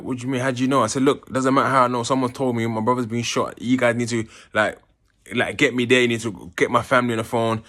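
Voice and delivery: urgent retold plea to the officers. Pleading with prison officers.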